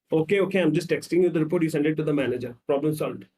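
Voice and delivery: brisk, lightly acted fixer; logical problem-solver. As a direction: rattle off the solution and close it. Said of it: "The problem solver, logical man".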